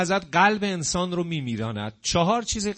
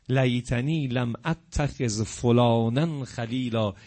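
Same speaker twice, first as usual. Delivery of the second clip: regretful lament; 4 semitones lower, slower than usual. Acted. Voicing the regretful damned.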